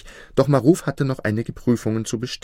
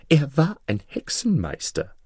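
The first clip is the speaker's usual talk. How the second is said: higher-pitched, accusing vizier; triumphant vizier; 6 semitones higher than usual. Acted. Vizier justifies himself to the king, triumphant. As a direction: accuse him in a raised character voice.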